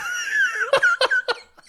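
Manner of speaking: loud, high laugh; helpless, loud laughing; burst of laughter. Real, not acted. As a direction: burst out in a high cackle at a joke. Reaction to absurd ape joke.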